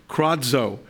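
kradzo said as KRAHD-zoh, stress on the first syllable; Greek word kradzo. Shown as a demonstration. Preacher teaching the Greek word kradzo. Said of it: "kradzo is the word".

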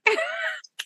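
sudden high burst of laughter. Real, not acted. Teacher laughing at being stuck squatting, high laugh.

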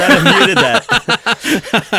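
high, slow embarrassed laugh. Real, not acted. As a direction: laugh it out, caught coughing on air. Coughed on the outro.

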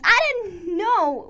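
child voicing a frightened witch; mock scream. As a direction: cry it out slowly in fright. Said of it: "Wirla screamed".

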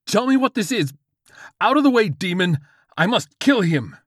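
high, loud desperate demand; frantic shouting. Acted. George orders the demon aside, frantic high shout. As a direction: yell it at the top of the range.

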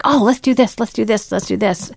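bursting with ideas, fading as it repeats; new hire's eager suggestion, trailing off; eager newcomer. Retold or imitated. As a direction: pitch every idea eagerly. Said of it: "They're like".

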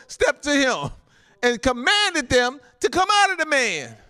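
emphatic pulpit reading, words stretched; preached scripture reading. Real, not acted. Preacher reads the healing testimony to the saints, forceful proclamation.

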